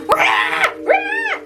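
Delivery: high yowling cat cry. Retold or imitated. Imitating her frantic cat leaping at her, high yowl. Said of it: "my cat came at me like".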